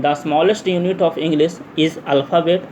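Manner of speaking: very slow, word-by-word dictation; drawn-out words at note-taking speed. Shown as a demonstration. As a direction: read it out slowly for students to copy down. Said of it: "धीरे धीरे मैं बोलूँगा".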